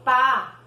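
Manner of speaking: Pá with a crisp, unvoiced P; P sound. Shown as a demonstration. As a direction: show the P in Pá clearly. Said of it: "o som de pi é bem parecido".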